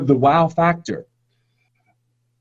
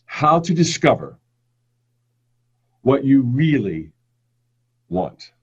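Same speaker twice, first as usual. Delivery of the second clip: "really" slowed and leaned on; stress on really. Shown as a demonstration. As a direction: give the word "really" a slow, weighty push. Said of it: "with emphasis on the word really".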